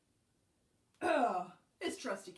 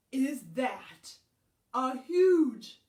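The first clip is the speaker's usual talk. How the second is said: mock fright; 2 semitones higher, 10 dB louder, slower than usual. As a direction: play scared of the spider for kids. Pretend fright at spider.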